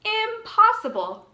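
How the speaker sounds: astonished disbelief. Acted. Farmer can't believe typing cows.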